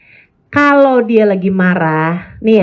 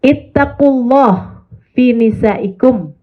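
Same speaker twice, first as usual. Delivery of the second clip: slow, measured Arabic phrase; Arabic hadith recitation; much slower than usual. Shown as a demonstration. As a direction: intone the Prophet's words slowly. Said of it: "Nabi Muhammad mengatakan".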